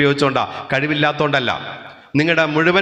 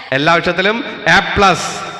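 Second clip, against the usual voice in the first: slow, louder reveal with "plus" stretched; excited reveal; 3 semitones higher, 3 dB louder, slower than usual. Acted. Teacher picturing the result, slow excited reveal. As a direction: savour the big news. Imagined result day announcement.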